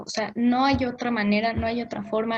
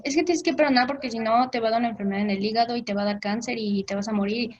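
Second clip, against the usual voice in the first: fast preachy warning; faster than usual. Retold or imitated. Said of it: "mucha gente dice".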